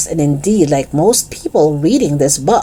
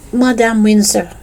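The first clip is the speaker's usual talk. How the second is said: put-on higher, careful French-accented address; tentative French accent; 4 semitones higher than usual. Fake French pupil addressing teacher, tentative French accent. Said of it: "in a tentative French accent".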